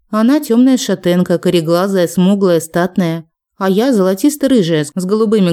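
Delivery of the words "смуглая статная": ordinary delivery, nothing marked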